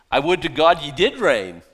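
loud, mock-wishful exclamation; exaggerated fake longing; sarcastic. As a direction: wish it loudly with sarcasm. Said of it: "He's being sarcastic".

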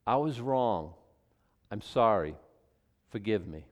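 sincere apology. Shown as a demonstration. Preacher showing the congregation the right apology, humbly. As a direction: say it plainly and own it. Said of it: "That's how we do".

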